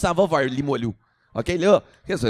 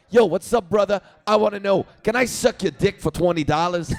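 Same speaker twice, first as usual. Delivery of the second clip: loud, high and pushy hailing; hustler's loud call; 4 semitones higher than usual. Retold or imitated. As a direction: accost him loudly, a street hustler. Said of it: "Le gars, il me dit tout de suite". (interpellation forte et insistante)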